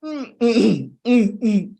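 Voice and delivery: loud, high insistent hums, mouth closed; emphatic humming. Shown as a demonstration. Coach showing how closed-mouth humming still strains the voice. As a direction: hum hard as if bursting to speak. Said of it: "Because you're trying to express yourself".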